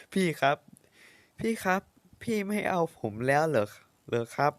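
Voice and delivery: put-on a child pleading, close to tears; tearful plea. Boy begs sister not to abandon him, tearful. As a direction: beg her not to leave, whimpering. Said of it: "อย่าร้องไห้สิ".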